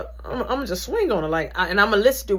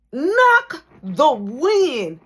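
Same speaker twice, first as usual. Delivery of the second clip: winded; 8 semitones higher, 8 dB louder, much slower than usual. Retold or imitated. Retelling being winded.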